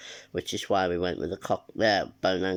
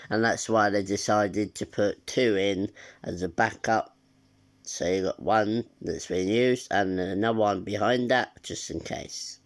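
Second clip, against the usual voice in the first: nasal voice. Real, not acted. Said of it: "my nasally voice".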